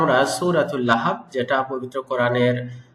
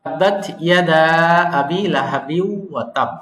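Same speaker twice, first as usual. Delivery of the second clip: chanted recitation of the verse; model recitation. Shown as a demonstration. Tajweed teacher models the verse, chanted. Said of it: "এই আয়াতে normally আমরা যেটা করি".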